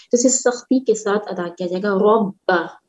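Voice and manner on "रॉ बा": रॉ बा with a full r and a firm ba, lips pressed together then opened. Shown as a demonstration. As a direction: press the lips shut on बा and release it crisply. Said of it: "होंठों को मिला के खोलेंगे". (होंठ मिलाकर रॉ बा)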